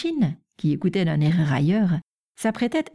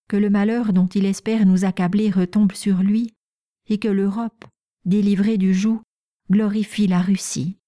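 a lightly raised, solemn proclamation read; thin girlish reading; 3 semitones higher than usual. Acted. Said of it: "de sa voix fluette".

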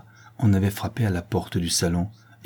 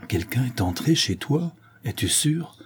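hushed, higher, disbelieving question; faltering, stammered question; 5 semitones higher than usual. Acted. Old nurse learning someone broke in, faltering. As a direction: ask it faintly, voice rising in alarm. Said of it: "balbutia la nourrice".

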